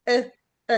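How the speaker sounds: short neutral uh for آه; isolated schwa. Shown as a demonstration. Teacher showing the correct sound in ago, brief schwa. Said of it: "ده النطق الصحيح بتاعها".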